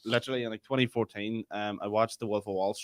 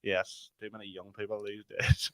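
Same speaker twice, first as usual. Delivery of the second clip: put-on slow, softer grumbling old man; lightly voiced disapproving elder; 5 dB quieter, slower than usual. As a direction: play a weary old man, drawn out. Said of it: "Whenever I think old man voice".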